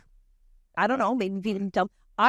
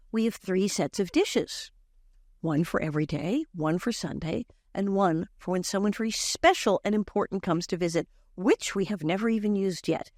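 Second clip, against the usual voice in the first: understated, proud recital, measured start; a touch of grand self-importance; utter pride. Acted. Child character boasts about the family's dishes, with understated pride. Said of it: "utter pride".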